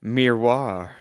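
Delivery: mock French accent imitating Google; French pronunciation. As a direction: say it like a French word. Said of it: "And Google just goes".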